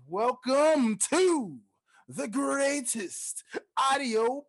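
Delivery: slow, high, booming ringmaster call; grand entrance announcement. Acted. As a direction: draw it out like a circus ringmaster. Ringmaster style show intro.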